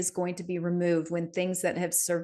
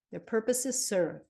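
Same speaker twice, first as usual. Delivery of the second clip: a hint of a quoted sage, slightly raised; Yoda; 3 semitones higher than usual. Host quotes Yoda's maxim, lightly voiced. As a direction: lightly intone it as the master's saying. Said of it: "But Yoda would say that".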